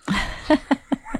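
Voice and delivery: short airy laugh; quick unvoiced giggle; breathy laugh. Real, not acted. Laugh after the joke.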